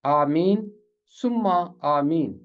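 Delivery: आमीन सुम्मा आमीन in separate parts, long 'ee'; Arabic pronunciation. Shown as a demonstration. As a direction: say आमीन सुम्मा आमीन as 'aameen, summa aameen'. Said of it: "ये अरबी अंदाज है".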